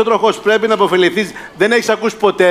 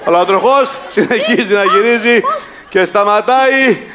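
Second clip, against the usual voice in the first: suspenseful announcement. Pretend. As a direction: stretch the last word as the wheel stops. Host announcing the spinning wheel.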